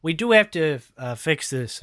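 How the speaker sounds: put-on high, bright-eyed Minnesota accent, apologetic; a nervous Minnesotan catching up. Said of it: "Hector sounds like he's from Minnesota".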